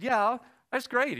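high, loud, drawn-out delight; retold enthusiasm. Diner owner welcomes the party plan, loud enthusiasm. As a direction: act out an eager yes, big and slow.

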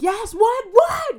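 high, loud reenacted answer; shouted reply. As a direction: yell back frantically to a call, acted out. Answering mom's call while running.

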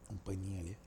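dropping to a hush. Real, not acted. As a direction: keep it down, barely audible. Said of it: "Não posso falar alto aqui".

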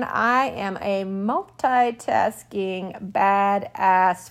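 mock boast. Sarcastic self-praise after ER story.

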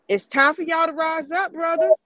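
loud, rising rallying cry; fiery revolutionary speech. Acted. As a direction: rouse the crowd to rise up. Rallying call to black men.

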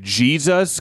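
"Jesus" rising as a question; puzzled upward lilt on "Jesus"; questioning tune. Shown as a demonstration. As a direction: say "Jesus" with the pitch lifting at the end. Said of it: "question mark".

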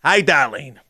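mock Boston accent, r dropped; lightly imitated Boston drawl. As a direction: put on a Boston accent for a greeting. Boston accent demo after accent talk.

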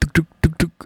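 pounding-heart "deg" noises; quick repeated thumps, voiced as words; imitated heartbeat. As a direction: mimic a racing heartbeat with your voice. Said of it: "gue deg-degan banget".

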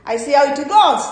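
hesitant Aussie impression, rising ends. Preacher imitating an Aussie answering Jesus, Aussie accent. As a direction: imitate a laid-back, noncommittal Aussie reply. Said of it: "This is the reply of an Aussie".

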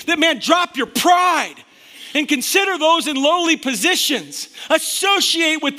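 preacher driving the point home, fired up. Real, not acted. Preacher urging his church to drop their pride, fired up. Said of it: "Sorry, I'm fired up".

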